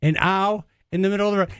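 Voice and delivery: fast, flat mock caller voice; imitating flat caller. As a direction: rattle it off without caring. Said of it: "doesn't it sound like".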